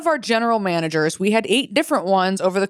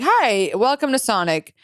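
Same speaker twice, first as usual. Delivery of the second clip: lightly put-on chipper carhop greeting, a bit higher; drive-in greeting; 4 semitones higher than usual. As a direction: imitate a carhop's rote headset greeting. Scripted drive-in headset greeting, re-enacted.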